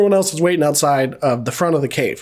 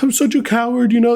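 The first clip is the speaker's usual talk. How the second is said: higher-pitched imitation of a self-pitying man; mock self-pity; 6 semitones higher than usual. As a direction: put on a higher voice for a mock confession. Voicing the survivor confessing in retelling.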